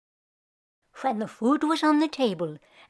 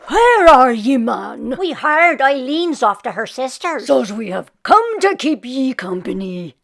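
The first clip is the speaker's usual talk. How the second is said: cronies calling; 7 dB louder than usual. Acted.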